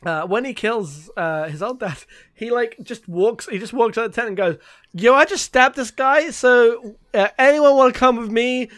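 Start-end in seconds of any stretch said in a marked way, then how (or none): 4.9-8.7 loud, brash acted call-out; casual public announcement. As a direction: address the whole camp breezily. Killer announces to the camp.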